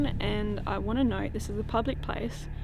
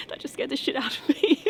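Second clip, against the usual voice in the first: startled whisper; 4 semitones higher than usual. Real, not acted. Startled by friend's sudden question.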